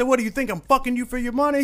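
high put-on boss voice. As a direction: act baffled at the complaint. Boss answers angry worker.

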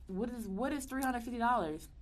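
high, disbelieving; mocking the tiny bail amount; incredulous question. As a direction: scoff at the small sum. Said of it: "Like, "Bro".

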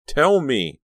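high, loud interrupting demand. A narrator's reading. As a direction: cut in and demand it. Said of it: "Danielle demanded".

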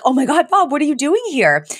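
high, surprised squeal; shocked Fran. Retold or imitated. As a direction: act stunned to see him. Fran greets cousin Bob, shocked.

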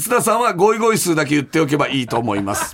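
even-paced radio mail reading; listener letter read-out. Acted. Host reading a listener's mail about Tsuda on the radio, measured read-aloud.

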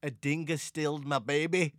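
lightly put-on Australian accent; a hint of mock Australian. Quoting a film line to his co-host, light Australian accent. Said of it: "your Australian accent".

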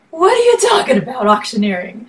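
quick, high-pitched baffled retort; incredulous. Retold or imitated. Singer retelling her reply to grandfather's whisper, incredulous. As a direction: fire it back high and fast, in disbelief.

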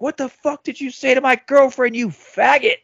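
retold hostile demand; mock angry accusation. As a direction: imitate a kid picking a fight. Accuser jabs him in the chest.

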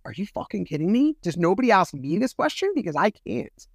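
retold indignation. Woman retelling her reaction to the lawyer's question, indignant. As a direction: recount it as an exasperated outburst.

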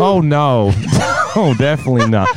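lightly voiced American girlfriend; a hint of an American girlfriend; American girlfriend impression. Playing own girlfriend defending the boyfriend, light American voice. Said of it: "he has to impersonate his mysterious American girlfriend".

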